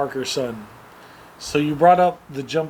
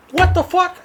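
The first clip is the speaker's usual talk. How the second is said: high, loud disbelief; retold outrage; 14 semitones higher, 5 dB louder than usual. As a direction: act out an incredulous high outburst. Retold outraged reaction to parent.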